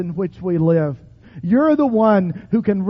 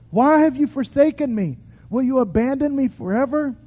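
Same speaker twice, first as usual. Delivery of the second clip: lament cry; 4 semitones higher than usual. Shown as a demonstration. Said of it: "Cry out. Shout out when you need to".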